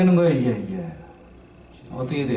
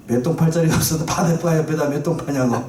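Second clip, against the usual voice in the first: 웃음 섞인 원망. Acted. Comic retelling of the complaint.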